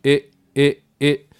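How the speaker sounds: え short, lips slack and not pulled wide; relaxed short vowel. Shown as a demonstration. Teacher demonstrating English short I, relaxed vowel. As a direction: say え with a lazy mouth, between i and e. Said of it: "口を引かずに".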